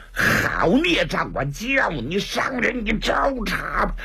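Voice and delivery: lightly acted, drawn-out challenge; slow, stretched words of a mild attacking cry; monk's battle cry. Monk challenges the leopard as he strikes, drawn-out cry.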